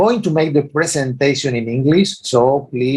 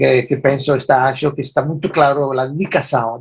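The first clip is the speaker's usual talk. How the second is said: Spanish-Portuguese mix; speaking Portuñol, mixing Spanish and Portuguese. Real, not acted. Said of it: "let me start with a few words in Portuñol".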